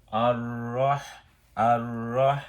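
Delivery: আর রহ with a firm, hard হ. Shown as a demonstration. Teacher shows the hard হ in আর রহ. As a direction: press the হ in রহ. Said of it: "হা রে একটু, আহ, শক্ত।".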